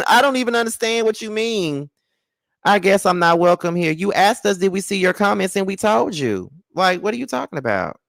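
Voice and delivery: high-pitched, incredulous rebuttal; baffled protest. Real, not acted. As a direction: keep protesting high in disbelief. Still protesting the viewer's comment.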